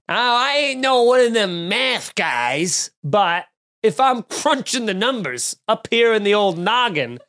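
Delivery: lightly voiced folksy dumb guy; a hint of a backwoods know-nothing; hick voice. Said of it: "dumb-guy math voice".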